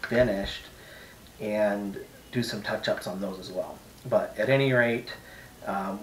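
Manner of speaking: loud put-on Eastern European accent. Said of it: "sorry Eastern European accent".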